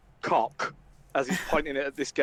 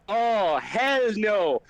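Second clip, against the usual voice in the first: slow, emphatic no; drawn-out refusal; 4 semitones higher, slower than usual. Acted. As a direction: stretch the refusal out. Flynn refuses again.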